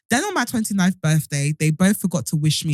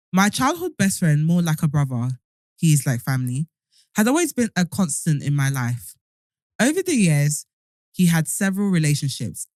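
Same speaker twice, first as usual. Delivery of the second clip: wearing a retainer. Real, not acted. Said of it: "if you hear my tongue fighting".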